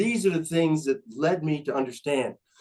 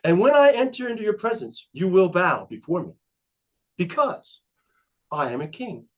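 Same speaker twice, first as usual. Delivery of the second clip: megalomaniac rant. Retold or imitated. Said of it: "I identify as King Ben of Conestoga".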